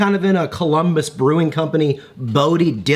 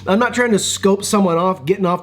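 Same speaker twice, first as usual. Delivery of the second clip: laughing protest; 5 semitones higher than usual. Retold or imitated. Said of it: "It's like".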